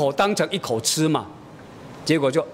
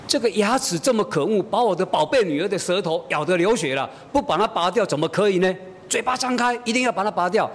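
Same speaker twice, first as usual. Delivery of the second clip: mock indignation; 5 semitones higher than usual. Father bluffing daughter about pulling her tooth, mock indignation. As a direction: pretend outrage, pitched up. Father feigns determination to pull.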